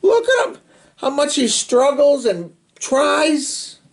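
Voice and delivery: laughing while describing the picture. Real, not acted. Reader laughing at the struggling brother. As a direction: giggle through the words.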